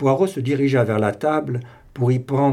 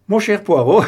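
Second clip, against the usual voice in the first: laughing heartily; 8 semitones higher, 8 dB louder than usual. A narrator's reading. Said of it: "rit de bon cœur Hastings".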